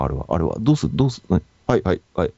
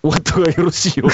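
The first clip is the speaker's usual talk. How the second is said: rakugo sign-off; 8 semitones higher than usual. Pretend. Rakugo closing line.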